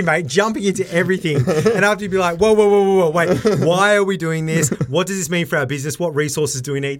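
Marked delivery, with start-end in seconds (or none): 2.4-7.0 high, loud whoa, easing into questions; hammed-up brake on a rash partner; mock alarmed halt. Acting out reining in partner.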